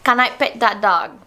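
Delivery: copying a Southern accent phrase; learner's playful try at Southern English; attempted Southern accent. Shown as a demonstration. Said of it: "you say it and I repeat it".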